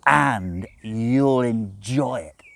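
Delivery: slow, heavy, unyielding insistence; relentless demon, slowly pressing. A narrator's reading. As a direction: lean in relentlessly, word by word. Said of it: "Crowley said relentlessly".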